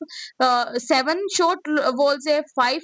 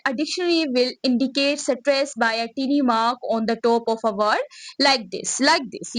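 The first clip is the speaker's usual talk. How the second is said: reads the English line out word by word, very slowly; slow textbook reading; much slower than usual. Acted. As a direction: spell the definition out slowly for the class. Reads textbook definition aloud slowly.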